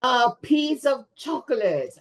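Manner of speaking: spring the answer on them; teacher revealing the surprise to the class; reveal after pause. Shown as a demonstration. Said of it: "Dramatic pause".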